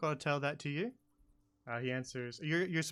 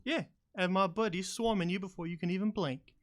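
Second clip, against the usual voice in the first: goblin threat, louder on the alarm; threatening goblin; 7 semitones higher, 7 dB louder than usual. Acted. Goblin guard threatening to raise the alarm, louder. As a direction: warn them off like a cornered goblin.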